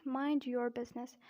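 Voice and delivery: American "your" with a sounded R; American accent. Shown as a demonstration. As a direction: demonstrate the phrase in an American accent. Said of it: "and in American accent".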